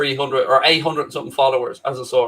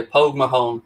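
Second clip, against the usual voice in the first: Irish accent at an easy level. Shown as a demonstration. Showing the host his Irish accent, Irish accent. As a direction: repeat it casually in an Irish accent. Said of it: "There's my Irish accent for you".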